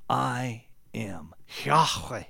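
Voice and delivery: breathy, slow, reverent whisper; hushed whisper of God. Acted. Preacher voicing God to Moses in a slow whisper. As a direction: whisper the divine name slowly, in awe.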